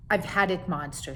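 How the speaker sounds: exasperated monster mommy. Acted. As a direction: she has truly had it with him. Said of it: "she said".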